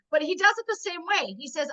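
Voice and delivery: ordinary talk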